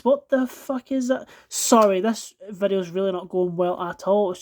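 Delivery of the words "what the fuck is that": drawn-out, higher disgusted shock. Real, not acted. Finding more gunk in the blades, slow disgusted shock. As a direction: stretch it out in real disbelief.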